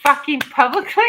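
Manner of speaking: high, slow calling-out with a laugh creeping in; mock scolding. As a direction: scold a sweetheart loudly, playfully. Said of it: "why I'm like".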